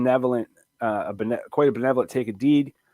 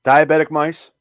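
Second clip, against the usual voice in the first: disbelieving echo question; incredulous; 5 dB louder than usual. Acted. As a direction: repeat it in total disbelief. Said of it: "You sounded so incredulous".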